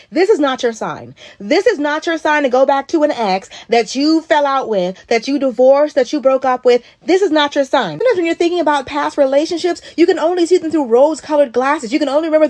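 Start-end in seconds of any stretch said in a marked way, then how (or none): 0.1-8.0 slow, stress on "is" in "This is not your sign"; emphatic slow warning. Real, not acted. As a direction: hammer the warning home. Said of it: "repeated emphatic warning to audience".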